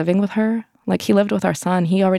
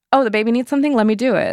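eager helper; 5 semitones higher, faster than usual. Retold or imitated. Helpful women in house.

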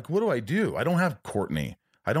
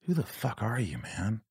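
imitated; 5 dB quieter, slower than usual. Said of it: "and going".

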